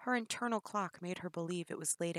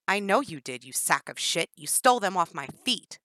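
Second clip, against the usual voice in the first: taunting; 9 dB louder than usual. Acted. Prisoner taunts captor.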